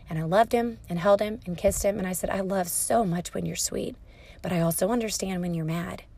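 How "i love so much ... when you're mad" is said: softly retold loving words; tender reassurance. Mother holding her son after his outburst, soft and tender.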